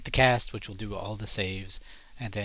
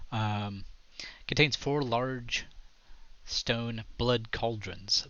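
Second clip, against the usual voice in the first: story narration. A narrator's reading. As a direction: set the scene, taking your time. GM describes the room.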